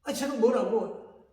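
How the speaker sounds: reenacting his angry complaint to God; retold complaining rant. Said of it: "이렇게 불평하고 원망하고".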